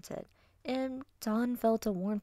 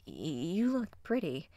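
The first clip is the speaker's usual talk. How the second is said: shy, halting compliment; nervous stammer. Acted. Wolf boy complimenting his crush, nervously. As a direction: stutter into it like a smitten boy. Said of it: "the semi-nervous wolf boy".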